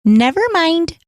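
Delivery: mock comedic brush-off; Gilda Radner's "never mind". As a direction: toss it off like the sketch character. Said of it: "she goes".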